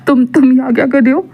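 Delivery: a light chuckle running into the question; amused, lightly laughing boss; laughing while asking. Acted. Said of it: "वांग जी हंसते हुए कहता".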